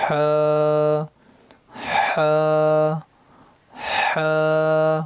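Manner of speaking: ہا breathed from the throat. Shown as a demonstration. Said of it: "اس کو حلق سے ادا کریں گے". (ہا حلق سے ادا کریں)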